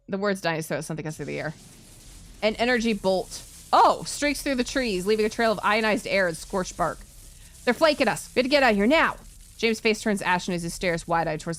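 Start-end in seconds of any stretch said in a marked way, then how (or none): 2.4-9.2 alarmed. Acted. Energy bolt attack, urgent warning.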